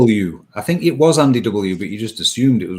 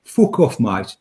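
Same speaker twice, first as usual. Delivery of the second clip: put-on Brummie accent; slower than usual. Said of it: "like, rummy accent".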